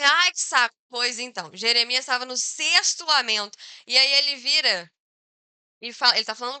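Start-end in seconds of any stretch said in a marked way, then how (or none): 0.0-0.8 put-on louder, fed-up child; exasperated groan. Child fed up with parents' repeated nagging, exasperated. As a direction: groan it like a nagged kid. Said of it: "Aí você fica assim".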